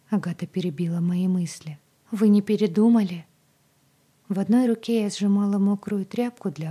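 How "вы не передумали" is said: anxious plea. A narrator's reading. Agata anxiously asks Zoe.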